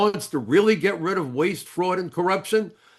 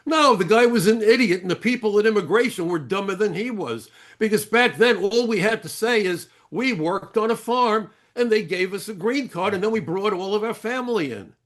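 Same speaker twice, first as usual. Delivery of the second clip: lightly imitated Middle Eastern accent, pitched higher; 6 semitones higher than usual. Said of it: "heavy Middle Eastern accent".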